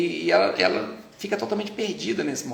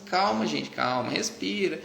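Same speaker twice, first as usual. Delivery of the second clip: lightly voiced grandmother, slowing down; grandma calming; 3 semitones higher, slower than usual. Grandmother in the reception telling everyone to calm down, slow and soothing. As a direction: soothe like a grandma rocking the baby. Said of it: "fala assim".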